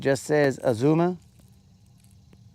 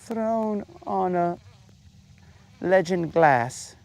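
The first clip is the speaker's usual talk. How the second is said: waiter bit; 5 semitones higher, slower than usual. Pretend.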